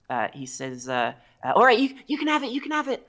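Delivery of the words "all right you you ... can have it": high, whimpering surrender; sobbing kobold. Acted. Game master as the frightened kobold giving up its necklace, sobbing. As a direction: hand it over in a high, pitiful little voice. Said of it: "starts to, to sort of sob".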